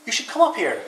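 high, loud call to someone below; shouting down. A narrator's reading. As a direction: call it down from the treetop. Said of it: "she shouts down to Rabbit".

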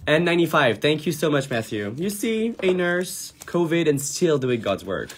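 high, loud, thrilled thanks; excited shoutout. Real, not acted. Streamer thanks a nurse viewer for her donation, excitedly. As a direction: gush over the nurse.

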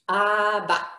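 "Abba" in two clear beats, ah-ba; two-syllable demo. Shown as a demonstration. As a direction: sound out "Abba" as AH-ba for learners. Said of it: "And it has two syllables".

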